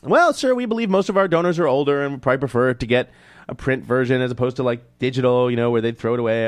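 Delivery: high, loud prim customer-service voice; high mock-polite charity staffer; imitating charity rep. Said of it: "I call them up".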